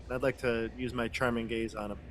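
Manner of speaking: usual speaking voice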